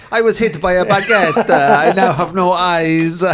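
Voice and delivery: high, loud, slow mock-accident victim; hammed-up put-on voice, drawn out; another injured victim. Another victim explains his baguette injury, in a loud comic voice. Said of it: "this guy then turns up".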